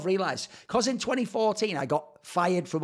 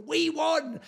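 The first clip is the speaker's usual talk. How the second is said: mock cheer; 10 semitones higher than usual. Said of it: "I cheer, and I go".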